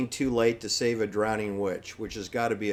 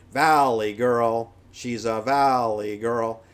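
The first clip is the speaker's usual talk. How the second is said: put-on valley girl; 5 dB louder, slower than usual. Quoting the song hook.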